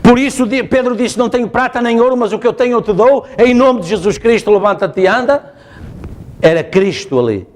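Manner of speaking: ordinary talk, nothing marked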